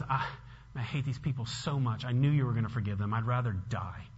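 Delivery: low, soft, defeated; bitter resignation. Acted. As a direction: act out a sullen wish to give up. Voices Jonah wishing to die.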